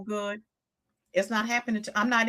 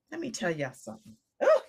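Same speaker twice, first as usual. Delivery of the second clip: normal talking voice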